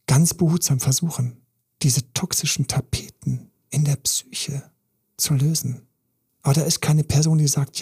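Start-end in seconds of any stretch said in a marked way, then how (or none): 1.8-5.8 whisper. Real, not acted. Coach describing careful work.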